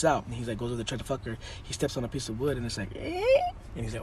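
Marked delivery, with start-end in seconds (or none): 3.0-3.2 squeaky vocal creak; drawn-out creaking noise with the voice; imitated floorboard creak. Man steps on loose wood, imitated creak.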